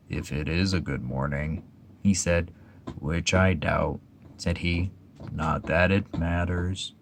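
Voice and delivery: put-on a depressed old donkey doubting the day; gloomy Eeyore. Eeyore's voice in story.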